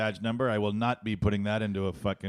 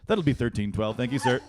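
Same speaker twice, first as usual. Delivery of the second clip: polite cashier; 5 dB louder than usual. Retold or imitated. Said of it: "press the other button and go".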